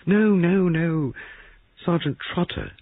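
high, frightened outburst. A narrator's reading. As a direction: blurt it out in fear. Frightened woman denying, pitch jumps.

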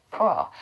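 poor said alone, low, as a model with a rounded r; careful R model. Shown as a demonstration. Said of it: "오 발음 하셔야 돼요".

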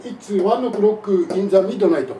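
slow, loud katakana English imitation; mock his Japanese English, syllable by syllable; Japanese-English accent. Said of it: "まず発音が全然日本語英語ですよね". (日本語英語の発音で、ゆっくり大きく真似して)

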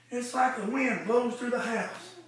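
soft aside; quiet retelling. Acted. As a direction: hush it down as if telling her privately. Quiet retelling of same line.

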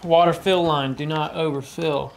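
Southern country twang reading. Pretend. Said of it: "the real, like, country twang".

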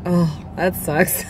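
slow chuckling quote; laughing passerby. Retold or imitated. Passerby's amused pity, slow and laughing. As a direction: laugh through it like the guy walking by. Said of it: "and he's like".

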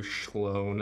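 "Sloan" said with a sh, as "Shlone"; accented name. Acted. Newcomer repeating Sloan as heard, with "Sloan" starting in sh. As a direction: begin "Sloan" with a sh sound. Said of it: "that's Stuart's accent".

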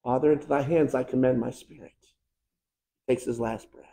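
soft, fading last words; hushed. Acted. Jesus's last breath told to the church, hushed and fading. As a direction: let it die away to almost nothing. Jesus dies, voice drops away.

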